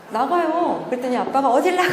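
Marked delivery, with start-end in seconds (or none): 1.5-1.9 much higher, a laughing fake yell; hammed-up father stopping her; mock shout. Father stops leaving daughter. (딸을 붙잡는 아빠의 웃음 섞인 고함)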